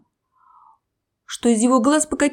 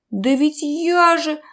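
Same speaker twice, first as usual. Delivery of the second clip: moaning; 5 semitones higher, slower than usual. Acted. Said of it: "простонал крокодил".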